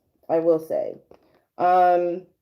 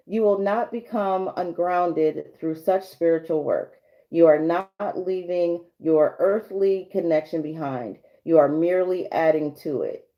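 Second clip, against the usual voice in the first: card reading voice. Acted. Reads card message aloud.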